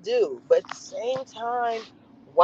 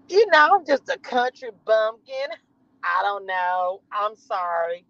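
Jasmine voice. Pretend. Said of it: "I'm doing that voice".

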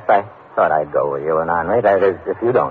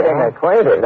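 incredulous echo; 7 semitones higher than usual. Acted.

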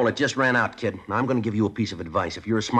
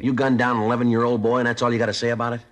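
higher and louder, outraged at the killer; outraged shout; 6 semitones higher, 6 dB louder than usual. Acted. Detective confronting the teen killer, outraged shout. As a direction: hurl the accusation at him in disbelief.

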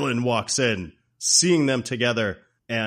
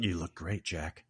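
tag; 5 semitones lower, 9 dB quieter than usual. Retold or imitated. Voicing flirty neighbor.

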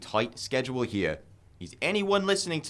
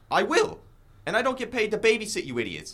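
higher, raised yelling at the idiots; yell to the rafters; 8 semitones higher than usual. Acted. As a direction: shout it up to the rafters. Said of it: "Why don't you yell it to the rafters?".

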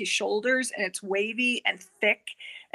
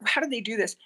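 sigh, then a quick whisper to herself; hushed wondering aside; faster than usual. Real, not acted. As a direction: breathe it out fast, half to yourself. Wondering aside mid-story.

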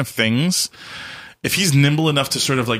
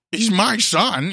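high, slow possessive voice; jealous Saul; 10 semitones higher, much slower than usual. Retold or imitated. Saul jealous of David and his son, high and drawn out.

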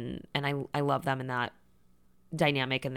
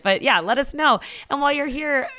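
1930s broadcasting voice; 5 semitones higher than usual. Pretend. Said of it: "a nineteen thirties broadcasting voice".

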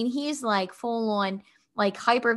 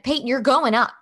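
louder, insistent retold order; firm parent; 3 semitones higher, 5 dB louder than usual. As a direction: lay down the law to a child. Mother firmly orders her son.

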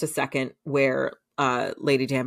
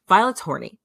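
higher and louder, relishing the gossip; gleeful reveal; 5 semitones higher, 5 dB louder than usual. Real, not acted. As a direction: announce it with delight.

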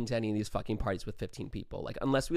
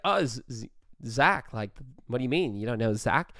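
stammering fake Aussie, mock disbelief; a put-on Australian "what do you mean"; bad Australian accent. Bluffing about a friend named Zach, mock-surprised Australian accent. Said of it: "with our Australian accents".

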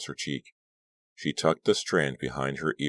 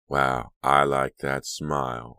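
slow, purring flirt; 4 dB louder, slower than usual. Acted. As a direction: purr it close in her ear. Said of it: "a voice purred in her ear".

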